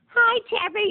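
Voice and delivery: high-pitched mock Italian-accented greeting; thick Italian accent. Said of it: "really thick Italian accent".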